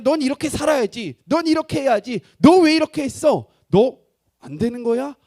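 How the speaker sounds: loud, high-pitched acted reprimand; harsh scolding. God as he is not, ordering people about, loud harsh scolding. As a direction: lay down demands at near-shouting force.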